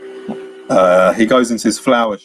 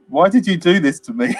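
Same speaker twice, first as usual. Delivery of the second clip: comical whiny plea; 6 semitones higher than usual. Retold or imitated. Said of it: "It's the way he says it's comical".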